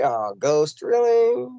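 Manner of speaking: imitating a doubter, rising on "really"; doubtful mock "really?"; skeptical reaction. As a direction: mimic people giving you a weird look. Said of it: "give me those weird looks when they say".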